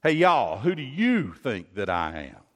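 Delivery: hammed-up Southern preacher voice; southern accent. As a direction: lean into a Southern accent to call the crowd. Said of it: "if we could be a little southern here".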